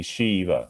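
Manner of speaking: "Shiva" said SHEE-vuh; "Shiva" mispronounced with a long first vowel, SHEE-vuh; wrong long i. Shown as a demonstration. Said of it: "it's not gonna be Shiva".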